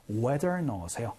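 ordinary delivery

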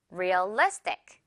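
Realistic slowly, "li" stressed; weight the "li" of Realistic; stress on the second syllable. Shown as a demonstration. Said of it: "리 부분에 강하게 강세를".

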